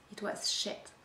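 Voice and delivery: hushed bitter whisper. Acted. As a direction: breathe it out under your breath. Bitter verdict on ruined work.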